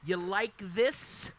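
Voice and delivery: drawn-out, slow "You like this?"; mild mock seduction, very slow; slow teasing flirt. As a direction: stretch each word out to tease. Courting bird repeats the line.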